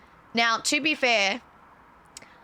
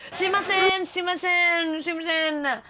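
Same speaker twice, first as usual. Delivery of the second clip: mock Japanese apology; 6 semitones higher, slower than usual. Real, not acted. Mocking the misheard word.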